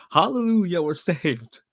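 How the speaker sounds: high, loud hallelujah burst; ecstatic cry of relief. Retold or imitated. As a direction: shout it like a rescued soul. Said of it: "and I'm like".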